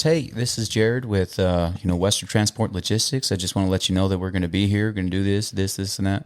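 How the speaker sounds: lightly businesslike phone introduction; professional voice. Retold or imitated. Driver calling concrete plants about tanks, mildly professional voice. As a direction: imitate your own polite work-call voice. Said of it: "like, my professional voice".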